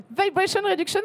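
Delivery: put-on American accent. Presenter showing off her practised accent, hammed-up American. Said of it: "je me suis entraînée pour mon accent américain".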